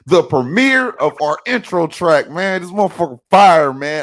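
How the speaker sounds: high, slow, grandly announcing; loud showman announcing the premiere; sophisticated voice. Shown as a demonstration. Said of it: "In my sophisticated voice".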